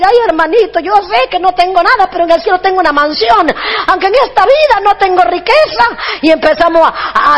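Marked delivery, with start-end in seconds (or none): 0.0-5.8 mildly plaintive mimicry; mock tearful preaching. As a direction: imitate a preacher whimpering piously. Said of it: "se para aquí a llorar".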